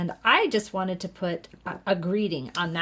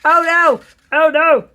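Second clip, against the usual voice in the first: loud, high oh no at a mistake; real dismay; 9 semitones higher, 13 dB louder than usual. Real, not acted. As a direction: cry out in real alarm. Realizes mistake while crafting.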